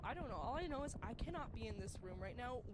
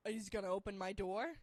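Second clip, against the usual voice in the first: incredulous; 7 dB louder than usual. Retold or imitated. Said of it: "I'm like".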